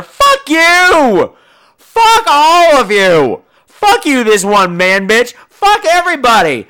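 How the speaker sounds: furious shouting. Real, not acted. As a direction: scream it at everyone. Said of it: "I'm being very immature".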